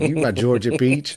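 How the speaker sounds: put-on a light Texas accent, sweet-talking; mock Texas charmer. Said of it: "he's kinda got this Texas accent".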